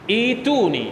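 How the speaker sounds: อีตูนี, carefully said; demo pronunciation. Shown as a demonstration. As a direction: pronounce อีตูนี as i-tu-ni. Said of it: "ก็เลยกลายมาเป็น".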